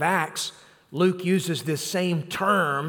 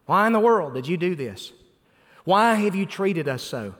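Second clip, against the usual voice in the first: exasperated mother. Acted. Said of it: "Mary's just, she's just exasperated".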